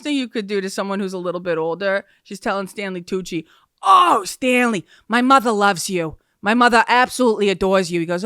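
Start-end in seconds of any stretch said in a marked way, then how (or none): 3.8-8.0 louder gushing fan voice; mom gushing. Retold or imitated. Mom gushing to Stanley Tucci about her own mother, louder. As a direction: gush over him like a starstruck mom.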